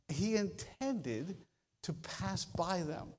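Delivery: slow, dropping to soft; slow emphatic fade. Acted. Preacher slowly stressing the puzzling phrase, fading soft. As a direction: lean on intended then let it fade.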